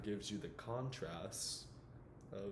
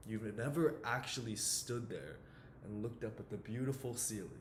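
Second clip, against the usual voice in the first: lightly acted dramatic monologue, challenging a know-it-all; a touch of stern mentor confronting a young man; Sean Maguire. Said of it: "the character Sean Maguire".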